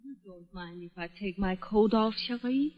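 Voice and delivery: flirty murmur. Acted. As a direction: purr it close and sly. Fifi flirts softly.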